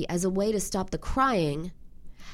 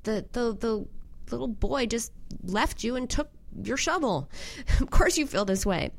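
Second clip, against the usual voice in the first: soothing validation; 4 semitones higher than usual. Retold or imitated. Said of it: "Instead of".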